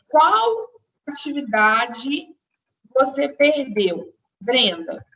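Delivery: slow, spaced example with a pause before Brenda; slow classroom example sentence; slow and deliberate. Shown as a demonstration. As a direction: dictate it word by word. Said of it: "se eu falo assim".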